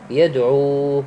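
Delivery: يدعو with its final "uu" held; elongated vowel. Shown as a demonstration. Teacher isolating the example word, long final vowel in يدعو. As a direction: draw out the end of يدعو for two beats. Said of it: "المد ما عليكم بمقدار حركتين".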